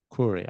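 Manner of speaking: Clory said with a long o and a tapped r; Japanese-accented Crawley. Retold or imitated. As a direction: say Clory as kʰlɔri, open o, flapped r. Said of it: "she said it in such a way".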